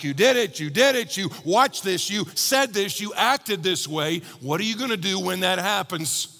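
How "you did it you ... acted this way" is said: accusing conscience. Retold or imitated.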